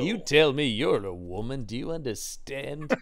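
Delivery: lightly voiced theatrical Heston; needlessly dramatic mock demand; Heston impression. Host as Heston quizzing a woman about his wife, mock intense. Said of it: "As I'm doing that voice".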